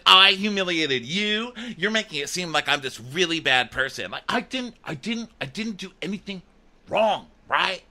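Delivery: high, halting imitation, softening as it goes; mock wounded protest. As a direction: stammer out his feeble defence in a high voice. Mocking his wounded defence.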